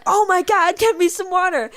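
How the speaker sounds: high, loud panicky plea; a scared child begging for water; panicked kid quote. Retold or imitated. Retelling her childhood panic, high frantic plea. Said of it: "and I'm like".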